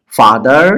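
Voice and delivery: ফাদার in two drawn-out parts, ফা and দার; split into syllables. Shown as a demonstration. Teacher showing the divided word, syllable by syllable. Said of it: "ভাগ করে দিছি".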